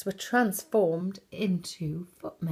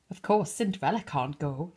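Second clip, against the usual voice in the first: sneering; 2 semitones lower, faster than usual. Acted. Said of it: "sneered her stepmother".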